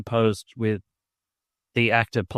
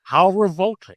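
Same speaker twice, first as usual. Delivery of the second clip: high, louder mock-Scottish revulsion; Ramirez's shocked Scottish accent; 9 semitones higher, 5 dB louder than usual. Podcaster imitating Ramirez's revulsion at haggis, in a shocked Scottish accent. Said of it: "he expresses shock in, like, a, a Scottish accent".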